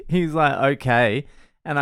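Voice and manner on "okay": lightly mimicked eager okay, rising; perked-up kid. Son at the gate about to run off, perked-up agreement. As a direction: imitate a kid suddenly recovered, with a lift at the end. Son perks up, then runs off.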